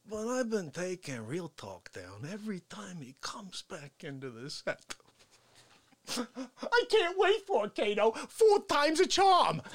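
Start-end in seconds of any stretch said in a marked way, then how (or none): 0.1-4.9 unvoiced secret whisper; plotting in a whisper; conspiratorial whisper. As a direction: whisper it like a plot.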